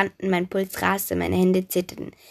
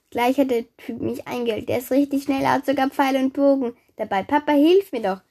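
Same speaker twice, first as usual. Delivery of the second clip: put-on higher, urgent girl's voice; alarmed plea for help; 5 semitones higher, 4 dB louder than usual. A narrator's reading. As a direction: call to Papa as the pursuer closes in. Chased Daphne begs father for help. (aufgeregt um Hilfe rufen)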